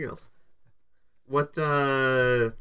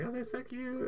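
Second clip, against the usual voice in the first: giggly voice; 11 semitones higher, 13 dB quieter than usual. Retold or imitated. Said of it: "Is she just gonna be like".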